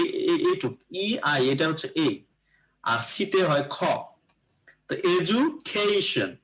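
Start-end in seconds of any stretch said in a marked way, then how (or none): 4.9-6.4 এডুকেশন with খে drawn out and stressed; slow demo, খে syllable lifted and held. Shown as a demonstration. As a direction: lean slowly on the খে in এডুকেশন. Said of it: "এই খে এর উপরে একটা stress হলো".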